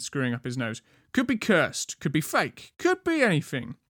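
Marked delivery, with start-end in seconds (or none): 1.1-3.8 lightly voiced suspicious guard; a hint of a stubborn sentry, reeling off doubts. A narrator's reading. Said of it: "the first guard grunted".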